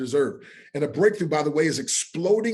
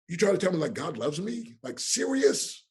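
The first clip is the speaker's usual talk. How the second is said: retold disbelief; 4 semitones higher than usual. Retold disbelief at being loved.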